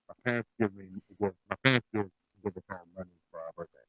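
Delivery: muffled voice, like through a wall. Real, not acted. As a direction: speak as if behind a closed door. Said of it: "you sound muffled".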